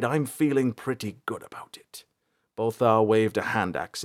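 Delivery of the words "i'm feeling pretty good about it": whispered. Acted. Bolthar's quiet confident quip.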